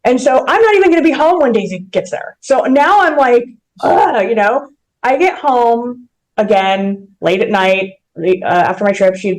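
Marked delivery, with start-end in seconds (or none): 3.8-4.3 high-pitched groan of frustration; exasperated groan. Retold or imitated. Traveller who will miss the puppy's arrival, exasperated groan. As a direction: let out a mock fed-up groan.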